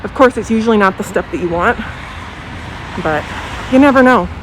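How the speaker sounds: talking through a face mask; muffled by mask. Real, not acted. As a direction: speak muffled behind a mask. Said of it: "I have my mask on if I sound a little muffled".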